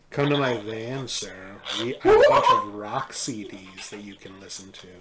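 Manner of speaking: creepy stranger voice. Pretend. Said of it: "I hate it".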